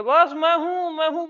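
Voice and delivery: sing-song, lost in herself; mock blissful mom. Rajiv's mother chanting to herself, in a high mock voice. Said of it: "बोलती रहती है".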